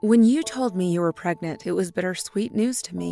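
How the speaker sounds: lightly voiced father. A hint of the father apologizing tenderly to Susie. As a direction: read it as a dying man's apology. Reads dead father's letter.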